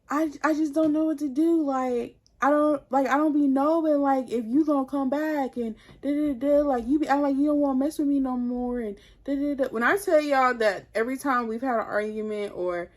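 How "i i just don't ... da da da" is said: higher-pitched, helpless retold plea; mild pleading. Boyfriend unsure if she'll come back, mildly pleading imitation. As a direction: imitate him at a loss, lightly whining.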